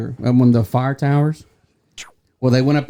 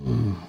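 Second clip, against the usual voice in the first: imitated grunt; 4 semitones lower, 7 dB quieter than usual. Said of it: "he's going".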